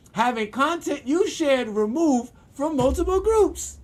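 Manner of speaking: slow read through real laughter; laughing while reading. Real, not acted. Reading the ban reasons to viewers, laughing slowly. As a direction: read it out as you crack up.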